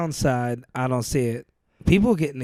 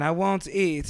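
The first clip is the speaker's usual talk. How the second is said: higher, mildly tearful imitation; mock crying; 4 semitones higher, slower than usual. Retelling the worker fearing no food, in mock crying. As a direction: imitate a worker pleading through tears.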